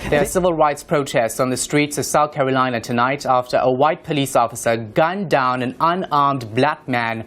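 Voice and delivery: crisp, measured news-anchor delivery; news anchor read. Acted. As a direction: read it like a polished evening bulletin. Reporter reading a news report.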